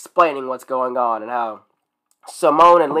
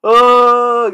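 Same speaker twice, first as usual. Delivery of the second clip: long loud high "ohh"; drawn-out groan; 9 semitones higher, 9 dB louder than usual. Real, not acted. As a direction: recover from a laughing fit with a big groan. Groaning after long laughing fit.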